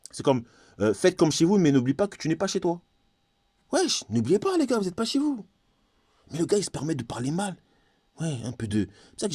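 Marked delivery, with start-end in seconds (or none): 3.7-5.4 a much higher, put-on voice calling out to the guys; mock warning. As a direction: play a local sneering at outsiders who forget their place. Voicing a local warning the foreigners. (voix aiguë et moqueuse qui lance l'avertissement)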